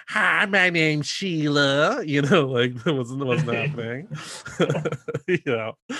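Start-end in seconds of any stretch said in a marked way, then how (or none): 0.1-2.0 mock Broadway diva. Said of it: "other women like".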